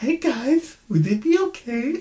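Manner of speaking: put-on feminine voice, very high. Showing his usual voice for white women, typical white woman voice. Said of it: "my typical white woman voice".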